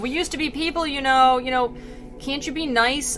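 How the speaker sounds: a hint of a hurt, whining tree; pleading tree. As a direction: beg like a wounded tree. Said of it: "He's like".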